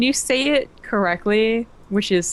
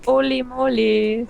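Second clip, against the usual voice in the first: cutesy; 5 semitones higher, slower than usual. Shown as a demonstration. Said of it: "The cutest way".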